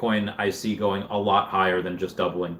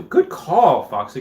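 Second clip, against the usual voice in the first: high, loud, delighted; excited praise; 3 semitones higher, 4 dB louder, slower than usual. Real, not acted. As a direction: cheer it out loud. Praising a chat tip.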